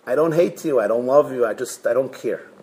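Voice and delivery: low, subdued, sinking delivery; apathetic. Acted. Person with no connection to you, apathetic. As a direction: let it sink away, uninvested.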